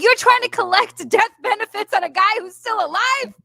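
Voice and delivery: high, loud incredulous outburst; retelling your own appalled reaction; retold disbelief.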